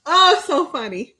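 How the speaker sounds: slow, high words through a laugh; real amused laugh. Real, not acted. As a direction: wheeze it out while laughing. Still laughing at Nashville.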